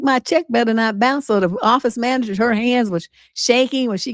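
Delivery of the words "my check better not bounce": sassy. Retold or imitated. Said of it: "that little hood rat coming out".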